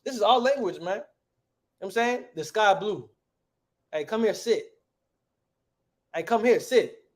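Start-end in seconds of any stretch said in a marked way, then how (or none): 2.3-3.1 easy colloquial "sky blue", no IS; casual everyday talk. Shown as a demonstration. Teacher showing the class how we talk, casual. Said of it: "That's how we say it". 3.9-7.0 higher-pitched, easy "come here, sit"; casual everyday talk. Shown as a demonstration. Teacher showing how we say it, casual summons. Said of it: "That's how we say it".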